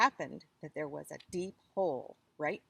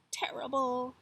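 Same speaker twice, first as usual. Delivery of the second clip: whispered; 5 semitones higher than usual. A narrator's reading. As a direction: whisper the word terrible. Spooky word in tiger's line.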